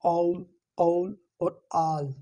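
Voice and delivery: औल drawn out slow, a blending into u; drawn-out aul. Shown as a demonstration. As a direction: stretch औल slowly, a sliding toward u. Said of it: "अ के साथ ऊ की आवाज़ आ रही है".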